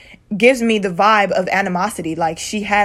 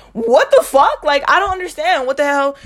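higher-pitched baffled outrage, retold; 4 semitones higher than usual. Telling viewers her reaction to sister's text, baffled outrage. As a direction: replay a baffled outburst, pitch jumping up then easing.

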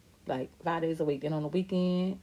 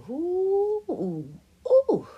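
choking on smoke; 11 semitones higher, 6 dB louder than usual. Retold or imitated. Little girl puffing mom's cigarette.

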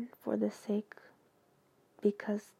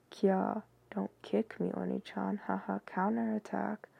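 slightly lowered, deadpan read-aloud; deliberate monotone. Shown as a demonstration. Reader gets through embarrassing fan text for viewers, in monotone. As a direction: read cutesy lines with as little tune as possible. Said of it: "the most monotone voice I can utter".

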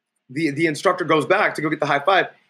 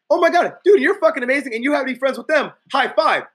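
put-on high, loud valley-girl gush; 9 semitones higher, 3 dB louder than usual. Next girl gushes over him, excited squeal. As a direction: squeal with delight.

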